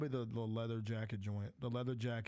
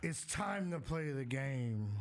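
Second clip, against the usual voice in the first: Triple H entrance impression; 2 semitones higher, much slower than usual. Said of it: "I got the old school Triple H".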